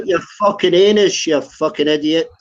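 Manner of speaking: irritated, heated insult; angry. Real, not acted. Arguing with a heckler in a group chat, angry. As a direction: snap back angrily at a heckler. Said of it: "Look at how mad you are".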